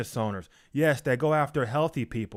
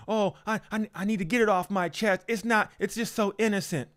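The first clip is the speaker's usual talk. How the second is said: higher, faster, faux-innocent whine; mock innocent excuse; 6 semitones higher, faster than usual. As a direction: play the gossiper excusing herself sweetly. Mocking a gossiper's self-justification.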